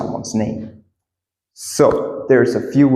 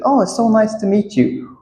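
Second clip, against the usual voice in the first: high, polite pleasantry; acted greeting; 10 semitones higher than usual. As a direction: say it pitched up, as in a first meeting.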